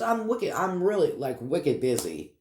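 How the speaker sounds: real Boston Yankee accent slipping out; casual Boston-area Yankee talk. Real, not acted. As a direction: say it like a Boston local. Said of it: "there's my Boston Peabodyite Yankee accent".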